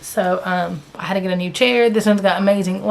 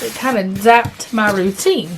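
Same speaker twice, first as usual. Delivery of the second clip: hiccups. Real, not acted. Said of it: "I've got the hiccups".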